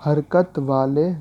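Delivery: حرکت والے stretched slowly with a rise on حرکت; slow emphasis. Shown as a demonstration. Teacher helps students memorize, slow and emphatic. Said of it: "یہ آسان لفظ میں اس طرح یاد کر لیں".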